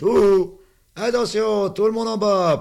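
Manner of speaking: put-on high shrill child's call; excited child yelling down the haystack; children shouting. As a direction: shout the warning like a kid at play.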